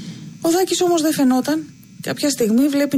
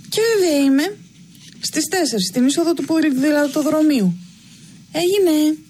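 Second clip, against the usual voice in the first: eager Giota; 4 semitones higher than usual. Acted. Giota eagerly accepts the invitation.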